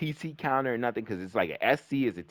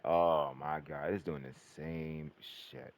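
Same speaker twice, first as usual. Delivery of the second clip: scared mutter; 5 semitones lower, 8 dB quieter, much slower than usual. Retold or imitated. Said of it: "I got real scared".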